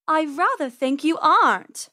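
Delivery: silky purring cat voice. Acted. Cat purring that supper won't escape. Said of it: "Persephone purred".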